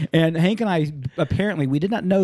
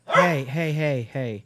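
lowering phone to yell; much slower than usual. Real, not acted. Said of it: "I'm yelling at my dogs".

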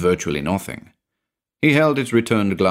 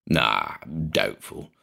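much lower, dismissive; low drunk drawl; 9 semitones lower, 6 dB quieter, slower than usual. A narrator's reading. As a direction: sound lazily dismissive.

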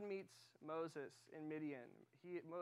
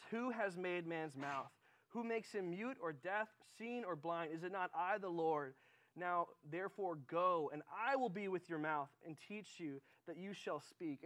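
slow, weighty questions building to a louder command; God's rebuke; 4 dB louder than usual. Retold or imitated. God answers Moses at the burning bush, commanding. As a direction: declaim it as God, firmly. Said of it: "and he says".

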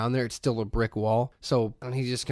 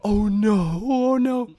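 high, louder alarmed cry; oh no panic; 8 semitones higher, 6 dB louder, much slower than usual. Retold or imitated. Wife realizing the contractor heard, high alarmed. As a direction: mimic the wife's sudden dread.

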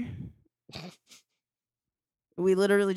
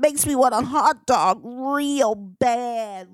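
slow, louder, whiny craving; craving drawl; 4 semitones higher, 5 dB louder, slower than usual. Acted. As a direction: drag out the craving. Craving hot dog, drawn out.

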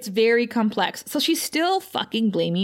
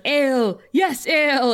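lightly voiced troll; 4 semitones higher than usual. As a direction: call for a drink like a hungry troll, half in earnest. Retelling the troll demanding a drink.

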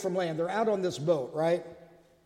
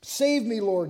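mock shout for help; 2 semitones higher than usual. Sinking Peter calls to Jesus, a raised mock cry. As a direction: call out as if sinking. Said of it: "he shouted".

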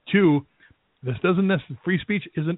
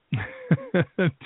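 stifled laugh; 3 semitones higher than usual. Real, not acted. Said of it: "I'm trying not to laugh about this".

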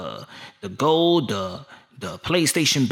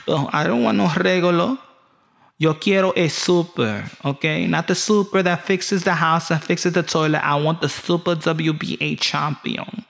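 higher-pitched, insistent mock wife; demanding wife; 5 semitones higher than usual. Wife turns down her regular champion husband, mock demanding. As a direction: play a sassy wife rejecting her husband. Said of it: "You tell your wife, like".

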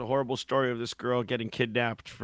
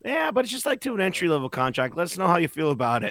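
mock PR spin; 5 semitones higher, faster than usual. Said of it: "they're like".

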